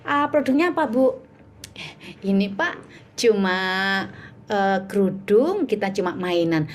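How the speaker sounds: halting, hesitant product answer; unconvinced seller. Shown as a demonstration. Coach mimicking a seller without belief in the product, hesitant. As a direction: stall and fumble as if unsure of your product. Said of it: "kalau ngomongnya begini produknya".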